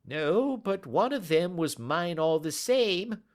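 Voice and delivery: high pleading whine; whining. Acted. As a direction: whine it out pitifully. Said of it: "whined the little man".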